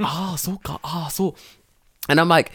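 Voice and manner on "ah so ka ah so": higher, softer mock "ah, so ka"; imitating Tanaka. Teacher imitates Tanaka sensei's quiet reply. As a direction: murmur it like a musing colleague. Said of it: "He's like".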